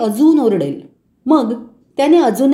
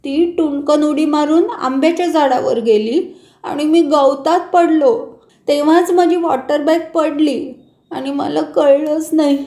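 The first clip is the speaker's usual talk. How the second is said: lightly voiced small boy, a touch higher, owning up; sheepish little boy telling his mother the whole story; child confessing; 3 semitones higher than usual. Boy Ashish explains to his mother how the bottle got lost, in a lightly higher child voice.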